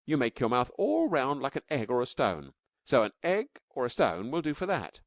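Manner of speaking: put-on high, bright-eyed child voice, eager; little girl Taffy. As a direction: play a small girl explaining her drawing.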